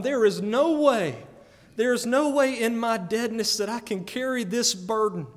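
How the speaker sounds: loud, pleading cry of despair; heart crying out. Retold or imitated. Preacher voicing his heart crying out, loud and pleading. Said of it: "my heart has been crying out".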